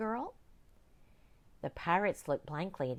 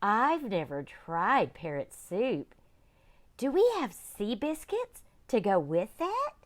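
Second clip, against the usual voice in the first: eager pirate; 5 semitones higher, 6 dB louder than usual. Acted. Hungry pirate Copycat.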